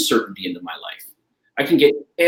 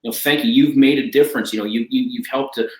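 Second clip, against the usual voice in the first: emotional heartfelt thanks. Retold or imitated. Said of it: "Emotional heartfelt".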